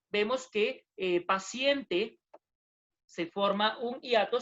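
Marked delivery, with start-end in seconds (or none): 1.2-2.2 "paciente" drawn out slowly; slow demo word. Shown as a demonstration. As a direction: spell the sound of "paciente" out at half speed. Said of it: "Aquí, por ejemplo".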